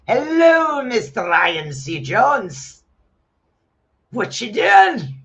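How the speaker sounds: high, loud, teasing hello to a viewer; playful greeting. Real, not acted.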